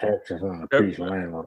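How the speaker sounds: lightly imitated incoherent Texan mumble; unintelligible Hardy mumble. Co-host mimicking Hardy in The Revenant, mock mumble. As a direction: run the words together as a mock mumble. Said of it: "what he was saying, I have no idea".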